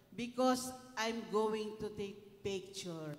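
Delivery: slow explanation. Retold or imitated. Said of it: "Sabi ng photographer".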